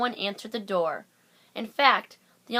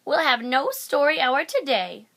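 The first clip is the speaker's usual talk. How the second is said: loud, higher stern decree; stern command; 5 semitones higher, 6 dB louder than usual. A narrator's reading. The strict teacher denying the class story hour, loud and stern. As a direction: lay down the law.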